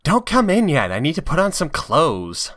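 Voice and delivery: put-on high, hurried girlish voice; flustered Rouge. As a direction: hold him off, half dressed. Rouge voiced in read-aloud fic.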